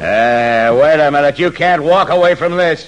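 loud, high challenge; angry shout. Acted. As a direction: shout him back. George shouts as Earp leaves.

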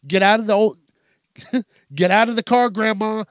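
hammed-up angry yell; mock road rage yell. Yelling at an old lady driver, mock furious.

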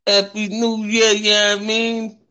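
high, loud New Year cheer; excited. Real, not acted. Midnight New Year celebration.

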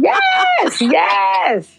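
high laughing yes. Real, not acted. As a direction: laugh it out, delighted. Host laughs at "wine is bigger" joke.

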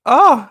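high, loud dramatic "ah"; cry of dismay. Real, not acted. Reader reacting to Kakeru's lost dream, loud dismay. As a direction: cry out at the sad news.

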